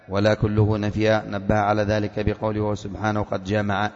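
slow, low recitation of the text; measured classical text reading; book reading. Acted. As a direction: read the commentary deliberately, word by word. Reads commentary text aloud.

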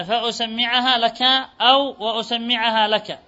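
u on the hamza and doubled m in وأسمعها; hamza with damma. Shown as a demonstration. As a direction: say فأسمعها as fa-usammi‘ahā, slowly. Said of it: "الهمزة مضمومة". (فأسمعها بضم الهمزة وتشديد الميم)

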